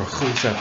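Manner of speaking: "Rousseff" with the R said as an H; Portuguese pronunciation. Shown as a demonstration. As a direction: say "Rousseff" Brazilian-style, starting on an H sound. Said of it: "I think in Portuguese it's Rousseff".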